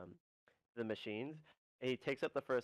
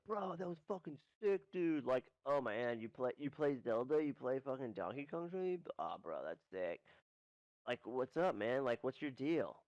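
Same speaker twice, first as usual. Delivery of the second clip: frat bro. Acted. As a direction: gush like an impressed frat bro. Guy approaching voiced as bro.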